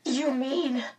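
high, shrill, appalled question; rising shrilly. A narrator's reading. Meg challenging Mrs Whatsit over Charles, shrilly. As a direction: voice climbing in disbelief. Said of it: "Meg's voice rose shrilly".

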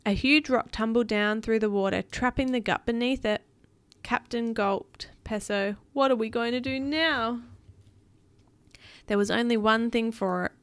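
put-on animated read-aloud for a child; storybook narration; story narration. A narrator's reading.

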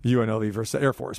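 dropped voice, hurried through; voice dropping. Real, not acted. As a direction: let the voice sink as you name the game. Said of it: "notice how my voice drops a little bit there".

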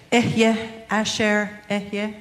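"Ehyeh, Asher, Ehyeh" sounded out word by word in careful Hebrew; halting Hebrew. Shown as a demonstration. Pastor admits poor Hebrew, then carefully sounds out the divine name. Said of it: "garble this here. My Hebrew is terrible".

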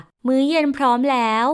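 sing-song call that dinner is ready. Acted. Calling John down to dinner.

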